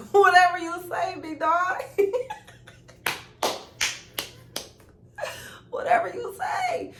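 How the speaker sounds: cracking up while repeating it; laughing. Real, not acted. Laughing retelling of backing down.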